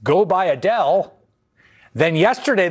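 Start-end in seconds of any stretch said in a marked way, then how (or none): 0.0-1.1 quoting Trump. Retold or imitated. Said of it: "told everyone, literally".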